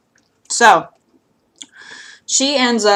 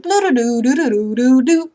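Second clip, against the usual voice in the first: ringtone imitation; 3 semitones higher than usual. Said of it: "what if her phone had a ringtone and it was like".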